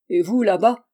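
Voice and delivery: loud call across the lawn. Acted. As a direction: shout to a servant far off. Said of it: "cria-t-il à un domestique".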